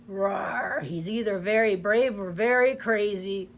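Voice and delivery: lightly voiced lion growl; a hint of a lion's roar. Lion judging the mouse, lightly growled. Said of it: "growled a lion".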